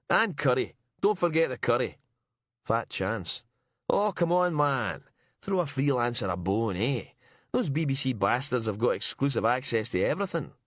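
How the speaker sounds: a cheeky freelancer cadging food; Miller's voice. Acted.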